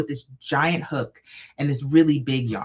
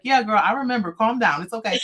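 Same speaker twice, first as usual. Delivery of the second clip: higher, playful calming; soothing mom; 6 semitones higher than usual. Retold or imitated. Mom calming her excited kid, soothing. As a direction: settle her down kindly. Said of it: "So she was like".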